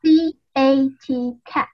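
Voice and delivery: letters spaced out one by one; slow spelling. Shown as a demonstration. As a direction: spell cat out clearly for the class. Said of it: "So the first one is".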